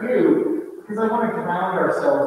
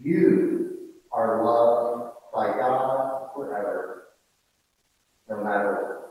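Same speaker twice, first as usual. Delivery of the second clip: gentle blessing; 3 semitones lower than usual. Shown as a demonstration. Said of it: "Imagine yourself saying to that person".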